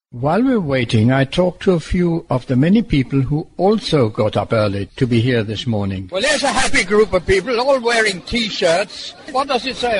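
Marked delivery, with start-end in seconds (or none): 0.1-6.1 measured, lower-pitched scripted read; radio report narration. Acted. Presenter telling listeners about the airport arrivals, scripted report narration. Scripted link between interviews.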